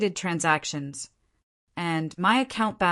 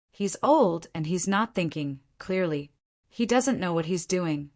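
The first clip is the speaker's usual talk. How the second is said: calm, soothing father tone; reasonable paternal. Acted. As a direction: handle it like a patient dad. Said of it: "trying to sound reasonable now. Paternal".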